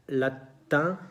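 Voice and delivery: "latín" as French latin, nasal ending, no N sounded; French pronunciation. Shown as a demonstration. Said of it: "latín en francés". ("latín" a la francesa, con vocal nasal final)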